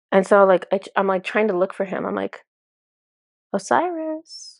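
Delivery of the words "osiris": calling out. Retold or imitated. Searching for the god, calling.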